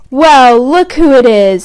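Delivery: a sneering greeting, read with a light touch; lightly voiced Malfoy, lazy and smug; lazy drawl. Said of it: "said Malfoy in his usual lazy drawl".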